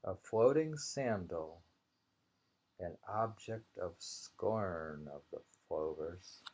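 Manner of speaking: measured, deliberate poem reading; haiku reading. Acted. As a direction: savor each image of the haiku. Rereads the same haiku.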